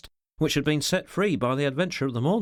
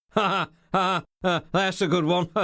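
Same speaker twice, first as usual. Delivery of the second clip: loud, higher, forced ha-ha; burst of laughter; 5 semitones higher, 4 dB louder than usual. A narrator's reading. Secretary laughs at his boss's remark, loud and mirthless. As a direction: burst out laughing through the words, without real mirth. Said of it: "burst out the secretary".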